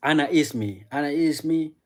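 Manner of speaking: "Ana ismi" said clearly in Arabic, stress on ana; 1 Arabic phrase demo. Shown as a demonstration. Teaching chat Arabic, clear Arabic pronunciation demo. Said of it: "you can say".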